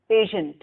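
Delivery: "Patient" repeated carefully, standing alone; model pronunciation. Shown as a demonstration. Students speak the word after teacher, careful model "Patient". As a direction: give "Patient" as a clear word to echo. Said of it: "the exact pronunciation".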